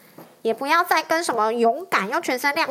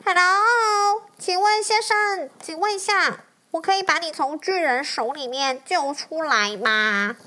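dragon voice; 3 semitones higher than usual. Acted. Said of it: "他说".

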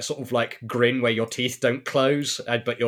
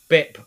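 beeping machine sound; 4 semitones higher, 8 dB louder than usual. Pretend. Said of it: "the bip machine is still going".

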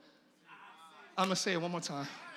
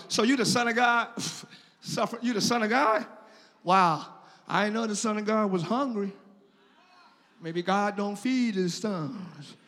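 sly, sneering taunt voice, lower; mocking devil taunt; 6 semitones lower than usual. Preacher voicing the devil taunting hungry Jesus, sneering. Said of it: "the enemy challenged his identity".

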